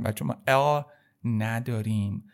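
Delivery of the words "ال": ال with a dark, heavy English l; wrong English-style L. Shown as a demonstration. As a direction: mimic the mistaken English ال. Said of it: "ال کاملاً غلطه". (ال غلیظ انگلیسی)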